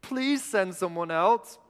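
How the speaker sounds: slow, lightly whiny plea; reluctant begging, a touch whiny; Moses. Acted. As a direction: drag it out with a mild whine. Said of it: "hear him in this whiny voice".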